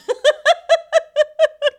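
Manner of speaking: high squealing laugh; shrill giggling fit; high laughter. Real, not acted. Laughing at own line.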